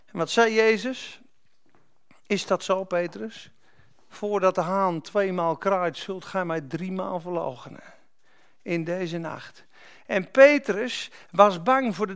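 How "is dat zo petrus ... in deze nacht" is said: lower, softening quote of Jesus; understated grave reply. Retold or imitated. Jesus answers boastful Peter, quietly grave. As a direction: let it sink quietly, with pauses.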